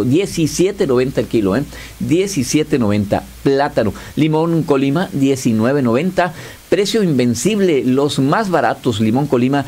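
upbeat radio ad pitch; ad read. Acted. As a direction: sell the prices with energy. Host reads supermarket ad live.

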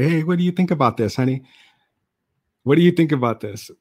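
rushing to get her verdict; eager self asking wife. Retold or imitated.

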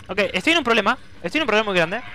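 mild alarm. Real, not acted. Trouble mounting, before the shouting.

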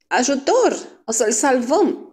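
high, drawn-out shout; playful girlish yelling; mock cries for help. A narrator's reading. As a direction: call out high, in fun. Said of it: "strigând printre chicote".

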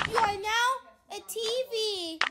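hushed pronouncement. Pretend. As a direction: quietly announce the transformation. Pretend testing, quieter first take.

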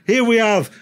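booming, high, laughing MC voice; ring announcer. Retold or imitated. MC at the nightclub ring introducing the fighters, booming hammed-up announcer. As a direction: bellow it like a hammy fight announcer hyping the crowd. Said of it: "The guy's up on the mic".

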